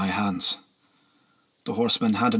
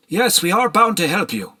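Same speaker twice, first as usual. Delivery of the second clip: higher, distinct thin voice; gaunt man voice; 10 semitones higher, 4 dB louder than usual. A narrator's reading. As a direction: speak earnestly as a gaunt lord.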